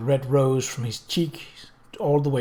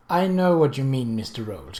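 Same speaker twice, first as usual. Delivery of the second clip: grave. Acted. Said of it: "Kate said gravely".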